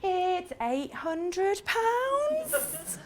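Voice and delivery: "It's eight hundred pounds" very slow, quiet and wavering; losing nerve. Shown as a demonstration. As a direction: let the confidence collapse. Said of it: "you open your mouth and say".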